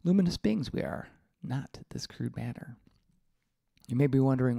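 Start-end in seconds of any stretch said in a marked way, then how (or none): 0.0-2.8 a hint of Yoda's wise tone; Yoda quote. Reading out Yoda to listeners, lightly voiced Yoda. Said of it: "As Yoda says".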